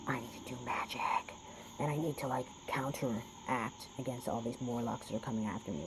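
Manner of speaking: hushed, secretive murmur of a paranoid mind; whispered inner voice. Retold or imitated. Voicing a paranoid believer's thoughts, hushed whisper. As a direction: breathe it like a secret fear.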